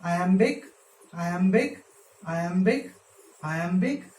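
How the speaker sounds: each "iambic" alone, rising at the end, short pause after; counting off feet. Shown as a demonstration. Teacher marking feet from the line's end, rising count. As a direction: tick off "iambic" foot by foot with a lifted ending. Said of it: "Let's begin from the end now".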